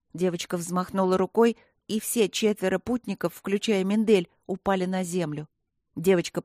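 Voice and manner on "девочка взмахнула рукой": usual speaking voice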